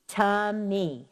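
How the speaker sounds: TUMMY split into two beats, "tum... mee"; syllable count. Shown as a demonstration. Teacher showing students two syllables, TUMMY pulled apart. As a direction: draw out both syllables of TUMMY separately. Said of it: "That's two".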